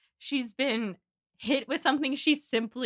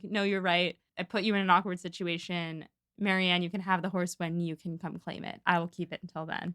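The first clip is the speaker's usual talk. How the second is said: low, subdued apologetic man; lower-pitched, measured male quote; Willoughby; 5 semitones lower, 3 dB quieter than usual. Acted. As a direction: play a conceding suitor in a lower voice. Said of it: "and he's like".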